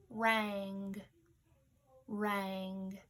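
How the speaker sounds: "rang" said alone, drawn out, then repeated; word dictation. Shown as a demonstration. Teacher dictating to pupils, "rang" alone and drawn out. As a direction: say "rang" slowly and distinctly, twice. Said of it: "For our word dictation".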